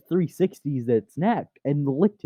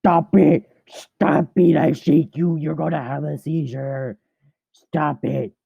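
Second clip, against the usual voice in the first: play scolding; slower than usual. Pretend. Owner tells the struggling cat to stop it, mock scolding.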